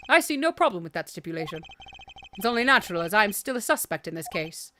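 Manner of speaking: accused gentleman, agreeable. Acted. Suspect accepting supervision by the attendant, composed agreement. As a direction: concede calmly and formally.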